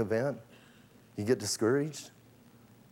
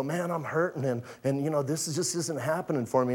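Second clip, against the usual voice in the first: hurting friend; 2 semitones lower, 6 dB quieter than usual. Retold or imitated. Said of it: "a brother or sister and go".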